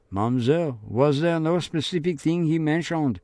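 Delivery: lightly voiced inquisitive officer; questioning policeman. Policeman questions Marie-Laure.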